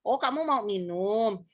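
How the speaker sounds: slow, clear question in normal pitch; correcting parent. Retold or imitated. Parent correcting a toddler's word for drinking, slow clear speech. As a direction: model the proper word MINUM for a toddler. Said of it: "yang harus ngebenerin".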